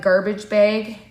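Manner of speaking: "bag" stretched slowly like Canadian "beg". Shown as a demonstration. Friend mimicking Canadian "bag" while teasing old accent. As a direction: drawl out "bag" with a Canadian vowel. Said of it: "very Canadian style voice".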